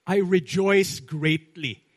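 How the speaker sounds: "greatly" stretched slow and loud; stress on GREATLY. Acted. Preacher quotes John to the church, stressing "greatly" slowly and loudly. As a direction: lean hard on the word "greatly". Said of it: "there's an emphasis on the word greatly".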